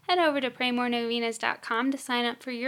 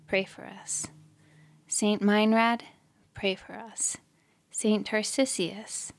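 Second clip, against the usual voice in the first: litany recitation. Acted. Asking each saint to pray for us, litany recitation.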